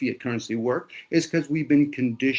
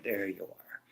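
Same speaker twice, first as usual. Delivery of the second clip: mocking; 3 semitones lower than usual. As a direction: murmur it with a smirk. Mocking the know-it-all.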